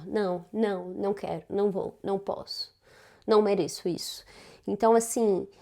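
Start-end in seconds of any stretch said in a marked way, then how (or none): 0.1-4.2 soft, offhand string of refusals; easy, casual refusal. Acted. Showing followers how easy saying no becomes, quietly casual. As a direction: toss off each no quietly, as if effortless. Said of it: "dizendo não tão, tão fácil".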